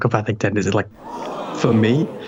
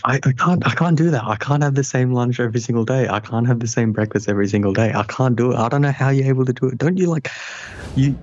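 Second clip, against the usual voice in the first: incredulous; 3 semitones higher than usual. Real, not acted. Friend protests routine in disbelief.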